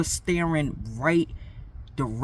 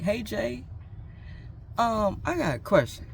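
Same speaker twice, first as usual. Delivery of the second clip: put-on girl's voice; 7 semitones higher, 4 dB quieter than usual. Girl comes asking, voiced.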